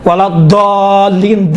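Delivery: slow ولا ضالین with ض as a plain د. Shown as a demonstration. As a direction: stretch ضالین, starting it with a thin d. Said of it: "دال، دال ہے".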